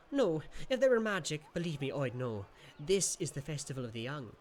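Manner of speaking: a know-it-all little imp; lightly voiced sprite. Jan the creature explains.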